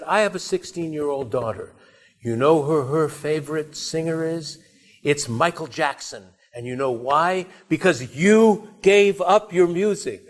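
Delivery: acting out an indignant friend's rebuke; retold angry reproach. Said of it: "really yelling at him".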